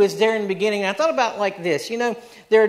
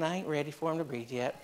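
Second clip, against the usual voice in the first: hushed God voice; 3 semitones lower, 12 dB quieter than usual. Acted. God's voice in the story.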